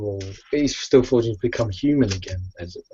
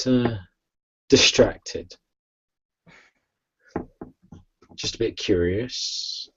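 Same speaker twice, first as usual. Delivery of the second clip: lightly voiced McGee, unhurried and a little lower; measured vampire hunter; 3 semitones lower than usual. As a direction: take your time, with a hint of character. In character as McGee.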